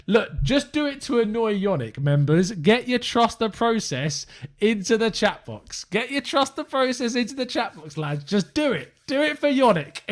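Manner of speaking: playful rallying. Real, not acted. Host urging chat members to annoy Yannick, playful high-pitched rallying.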